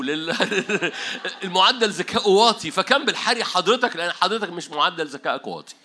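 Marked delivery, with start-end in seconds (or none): 0.0-4.0 loud words through laughter; laughing. Real, not acted. Preacher teases the congregation, laughing. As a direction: laugh while teasing the crowd. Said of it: "laughs at own joke".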